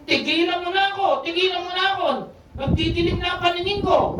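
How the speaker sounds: retold yell. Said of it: "Sinigawan niya".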